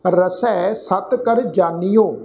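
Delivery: drawn-out, measured chant of the verse; scripture read like a path; slow scripture recitation. Acted. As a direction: intone each word slowly, reverently. Recites verse line slowly.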